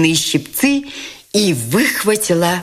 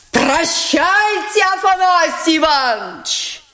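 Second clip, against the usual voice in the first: much higher, slow, sing-song goodbye; mocking farewell; 12 semitones higher than usual. Nastasya mocking Afanasy Ivanovich, sing-song. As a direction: bid farewell with cutting irony.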